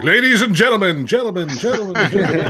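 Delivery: echo effect. Pretend. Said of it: "mess with somebody if they don't know how to turn off the echo".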